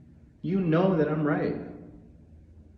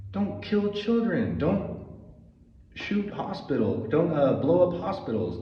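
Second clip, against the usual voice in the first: higher, pleading, kill hit hard; anguished plea; 4 semitones higher than usual. Real, not acted. Pleading with Israel, a high anguished don't kill children. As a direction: beg them to stop, voice rising.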